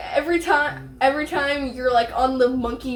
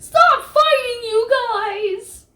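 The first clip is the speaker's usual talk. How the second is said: high whiny plea; 9 semitones higher, 4 dB louder, slower than usual. Pretend. Breaking up toy fight.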